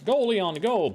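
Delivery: cheering. Real, not acted. Cheering character on while running.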